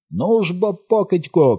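bait the beast with a scream; taunting shout. A narrator's reading. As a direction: hunter goading the beast, shouting. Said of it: "кричала мисливиця".

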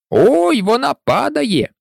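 alarmed cry. Acted. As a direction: warn everyone it's falling. Workers cry out as slate falls. (тривожний вигук)

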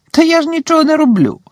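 very high, loud, squeaky mock-innocent voice; giggling poltergeist. A narrator's reading. Peeves squeaks innocently at the professor, giggling. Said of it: "захихотів Півз".

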